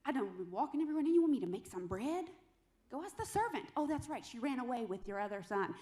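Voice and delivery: a light touch of sassy wife talking back; mildly mock indignant retort. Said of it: "she's just really sassy".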